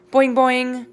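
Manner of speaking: high, loud springy boings; boing like a worried frog. Acted. Og the frog answers the hamster with loud high boings.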